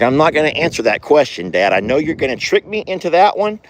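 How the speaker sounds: fast, sheepish horse voice; a quick nervous horse's answer; voicing the horse. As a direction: rattle it off like a guilty horse. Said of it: "he's like".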